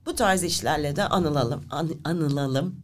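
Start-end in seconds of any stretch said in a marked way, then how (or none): 1.7-2.8 coughing fit. Real, not acted. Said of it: "Konuşamadım".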